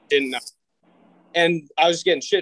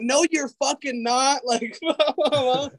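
mock disbelief; 9 semitones higher, slower than usual. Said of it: "she's just flipping out".

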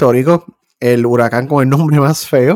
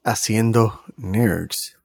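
flight attendant. Acted. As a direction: welcome passengers like a cabin announcement. Podcast intro, host introduces show.

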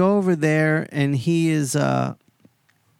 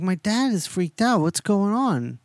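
higher-pitched, mildly alarmed imitation; mock worry, pitched up; kinda freaked out; 6 semitones higher than usual. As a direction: act out a rattled son wanting answers. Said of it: "he's kinda freaked out".

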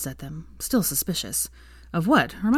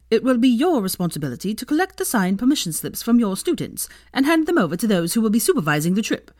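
stern headmistress; 4 semitones higher than usual. Acted. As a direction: speak like a brisk headmistress. Minerva addresses the staff.

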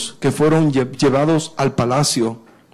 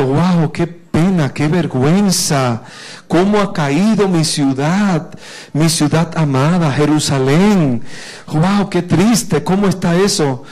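grieving lament. Acted. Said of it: "sintió una gran tristeza".

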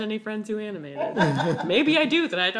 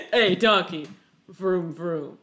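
Vin Diesel; 5 semitones lower, much slower than usual. Retold or imitated. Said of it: "It would just be Vin Diesel".

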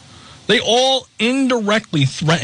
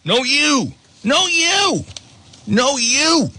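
childish mock voice; 7 semitones higher, slower than usual.

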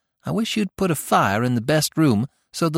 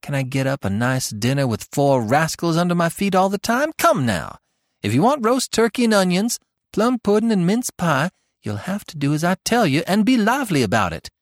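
spirited; 9 semitones higher than usual. A narrator's reading. Tilly talking Eve into heating the best room, spirited. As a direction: sweep her sister along. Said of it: "Tilly spoke with such spirit".

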